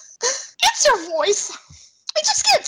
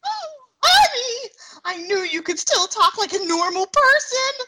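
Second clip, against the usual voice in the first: laughing through tears; 8 semitones higher than usual. Acted. Wife overjoyed hearing normal voice.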